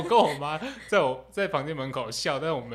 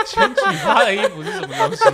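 asked through bursts of high laughter; cracking up while asking; laughing; 8 dB louder than usual. Real, not acted. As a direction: laugh out the question in disbelief. Laughing at absurd sleep talk.

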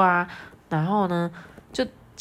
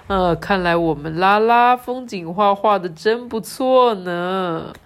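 higher, slow, hesitant father guessing; puzzled dad; 4 semitones higher, 4 dB louder, slower than usual. Acted. Dad squinting at Lala's drawing, unsure. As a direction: fumble for a compliment. Reading dad's lines.

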